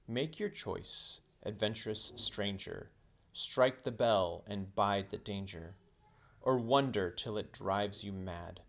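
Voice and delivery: slow, solemn incantation; poem recital. A narrator's reading. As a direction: intone it like an ancient inscription. Reading the pillar's poem.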